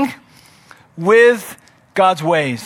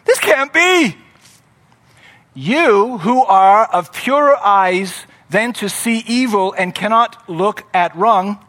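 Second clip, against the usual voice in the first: bewildered disbelief. Acted. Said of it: "he's bewildered".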